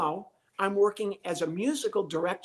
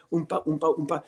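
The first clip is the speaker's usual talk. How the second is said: vamp imitation. Shown as a demonstration. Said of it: "if you know what a vamp is".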